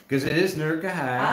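nerk Ahia said as nə˞k əhaɪə; local pronunciation. Shown as a demonstration. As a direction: drop the O, say Ahia. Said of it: "up home, it's Ahia too".

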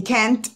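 CAN'T as "kent", T sounded; with final T. Shown as a demonstration. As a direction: say CAN'T with a clear E, ending on T. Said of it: "si no sigue verbo".

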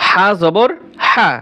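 HA হা with a hissing rasp from inside the throat; throaty raspy ha. Shown as a demonstration. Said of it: "গলার ভিতরে ফ্যাস ফ্যাস আওয়াজে বলতে হবে". (হা গলার ভিতরে চেপে ফ্যাস ফ্যাস আওয়াজে)

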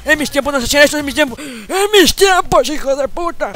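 a high, loud rant, dragging out mis; enraged old man shout. Acted. Old grandpa raging at what players do now, in a high shout. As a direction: rage at how things have changed.

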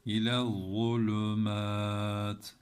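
zulümat with a thick emphatic z, slow; İle zulümat held slowly, heavy letter. Shown as a demonstration. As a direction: say zulümat with the z dark and lisped. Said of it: "yine kalın harf bakın".

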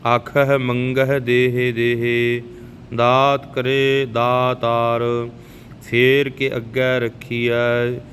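slow, even devotional recitation of gurbani; scripture recitation. Shown as a demonstration. Teacher reciting Japji Sahib for the learners, calm and even. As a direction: recite each line steadily, like a prayer.

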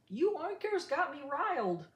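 fed-up farmer shouting at his pigs; angry yell. Acted. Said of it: "Farmer stomped his feet and yelled".

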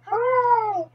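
high celebratory hooray; high-pitched cheer. Acted. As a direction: cheer it out with a falling note. Cheer for Polly's recovery.

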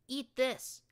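loud, high battle cry; defiant shout. Acted. Narrator throws the grenade at the beast, loud high shout. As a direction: hurl it at the beast. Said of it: "I shouted".

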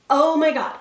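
stressed exclamation. Shown as a demonstration. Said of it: "response can look something like this".

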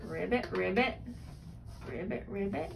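low playful ribbits; frog croak. Acted. Parent reads green frog page to child, low frog sound. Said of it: "He's gonna do the animal sound".

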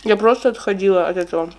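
talking between chews; muffled by food in mouth; mouth full, chewing. Real, not acted. Seen 1: Salad bite earlier; cheeks full, lips working while talking until ~4.4s.

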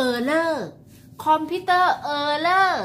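error said as "เออเร่อ", computer as "คอมพิวเต้อ", both loud; Thai-style error. Shown as a demonstration. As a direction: say error the Thai way, er-ror with a flat r. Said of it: "shows Thai pronunciation". (ออกเสียง error แบบไทย เออเร่อ)

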